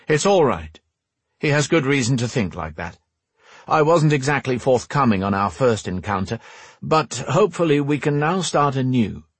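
calm the quarrel in a slightly put-on rogue voice; conciliatory rogue. Voices Bane in the story.

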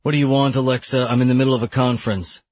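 irritated. Acted. Lawyer answers ex-wife's call in mid conference, irritated. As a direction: cut the caller short, mildly exasperated. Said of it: "I let out an irritated sigh".

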